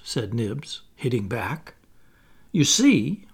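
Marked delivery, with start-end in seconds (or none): 2.5-3.3 higher, mildly self-satisfied; complacent. A narrator's reading. Wendy telling her story to the boys, complacently. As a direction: explain with a touch of smugness. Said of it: "Wendy said complacently".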